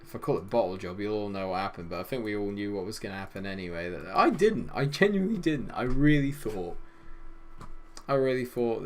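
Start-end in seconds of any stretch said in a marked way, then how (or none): 3.9-8.8 exasperated protest. Real, not acted. Protesting that he believed.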